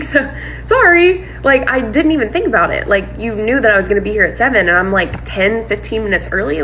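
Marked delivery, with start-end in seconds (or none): 0.0-1.3 high, drawn-out "sorry"; defensive apology. Retold or imitated. Girlfriend to the partner flipping out, defensive apology. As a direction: stretch it out high, half apology and half protest.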